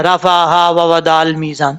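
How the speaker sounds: عین read as حمزہ, slowly; wrong reading. Shown as a demonstration. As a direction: show the mistake with ain as hamza. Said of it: "کتنی بڑی غلطی ہے". (عین کو حمزہ پڑھنے کی غلطی)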